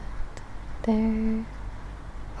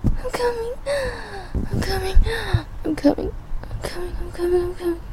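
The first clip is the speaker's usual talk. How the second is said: high, breathless repeated cry; overwhelmed; 12 semitones higher than usual. Real, not acted. Solo recording at its peak, high and overwhelmed. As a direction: repeat it high-pitched, overcome.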